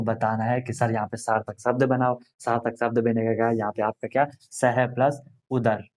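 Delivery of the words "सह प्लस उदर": slow split word. Shown as a demonstration. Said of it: "देखो यहाँ पे आया अ".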